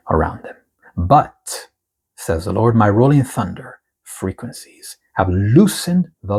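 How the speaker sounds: slow, weighty reading of the Lord's words; prophetic proclamation. Acted. Reads the prophetic word aloud.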